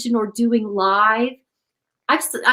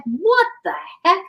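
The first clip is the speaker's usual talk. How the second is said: higher-pitched, exasperated outburst; annoyed disbelief; 6 semitones higher than usual. Retold or imitated. Meditator recalling the cackles in the temple, annoyed. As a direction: retell your irritated reaction, pitch jumping up. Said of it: "I got really annoyed".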